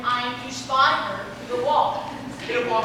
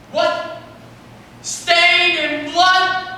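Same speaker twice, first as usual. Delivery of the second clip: hammed-up tragic hero; slower than usual. Pyramus overacts grief.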